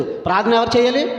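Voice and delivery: "చేయాలి" rising up as a real question. Shown as a demonstration. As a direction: ask it, voice lifting at the end. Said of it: "ప్రార్థన ఎవరు చేయాలని అంటున్నాను". ("చేయాలి" పైకి లేచే ప్రశ్నగా)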